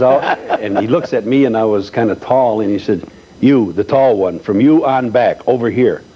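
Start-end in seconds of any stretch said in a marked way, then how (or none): 3.4-6.0 mildly imitated commanding priest; retold priest directing the line; priest giving orders. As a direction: call out orders like a strict priest, slightly raised. Retold priest ordering kids over.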